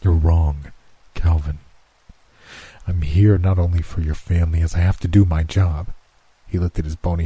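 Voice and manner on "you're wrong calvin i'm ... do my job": lower, measured voice of Death; Death's voice. Acted. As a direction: speak as calm, cold Death. Death corrects Calvin.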